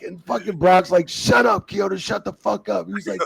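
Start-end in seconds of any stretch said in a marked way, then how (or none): 1.1-2.9 loud, very high shout easing off; retold angry order; heated silencing. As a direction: cut him off with an acted yell. Brock silencing him in acted quarrel.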